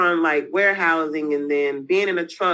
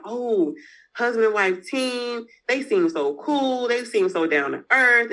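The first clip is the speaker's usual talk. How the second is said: imitating fans; 5 semitones higher than usual. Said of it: "it's just like".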